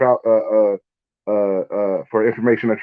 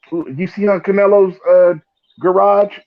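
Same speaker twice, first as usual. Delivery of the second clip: high, mocking put-on voice; lightly mock a show-off; 9 semitones higher, 4 dB louder, slower than usual. Mocking boxers flaunting cars.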